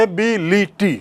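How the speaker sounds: एबिलिटी broken into four separate beats; syllable by syllable. Shown as a demonstration. Teacher counting vowels for students, एबिलिटी split syllable by syllable. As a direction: say एबिलिटी slowly, each vowel sounded apart. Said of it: "चार बार हो रहा है".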